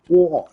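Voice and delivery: "Water" the English way, crisp t, no r at the end. Shown as a demonstration. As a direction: announce "Water" loud and proper English. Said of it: "That's how we say it in England".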